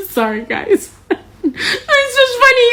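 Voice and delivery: slow, laughing "It's just funny." pitched high. Real, not acted. Laughing about Kentucky vote.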